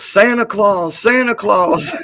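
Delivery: put-on high, excited little-girl voice; little girl calling out. Streamer mimics the little girl who spotted him, high and excited. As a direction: squeal it like a delighted little kid pointing. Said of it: "she fucking points and goes".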